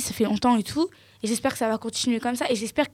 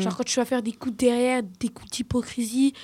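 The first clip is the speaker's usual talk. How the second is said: whisper; 4 dB quieter than usual. Real, not acted. Describing backstabbing, drops to whisper.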